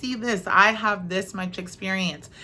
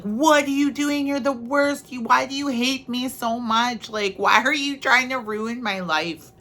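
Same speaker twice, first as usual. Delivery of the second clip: frustrated whine; 5 semitones higher than usual. Retold or imitated. Speaker accusing creator of ruining her life, high whine. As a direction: throw a tantrum at the heavens. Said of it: "I was like".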